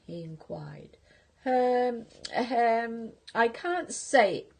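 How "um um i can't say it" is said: giggling. Acted. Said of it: "giggled the rhinoceros".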